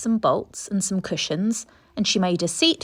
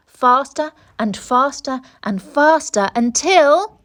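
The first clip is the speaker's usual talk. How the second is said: building excitement; 5 semitones higher, 6 dB louder, slower than usual. A narrator's reading. Speeding story building up.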